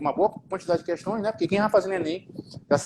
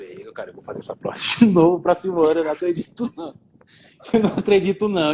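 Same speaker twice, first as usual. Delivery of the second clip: half-laughing at himself in disbelief; rueful laugh. Retold or imitated. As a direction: laugh it off, resigned. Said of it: "Eu digo".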